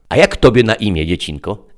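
high, loud, coaxing tempter; sly interpreter. A narrator's reading. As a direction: sweet-talk the child into it. Interpreter asks her name. (wysoki, przymilny głos kusiciela)

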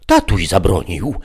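put-on high, loud little girl's voice; a child reciting the rule; childlike Eve. A narrator's reading. Eve repeating father's rule. (wysoki, głośny głosik dziecka)

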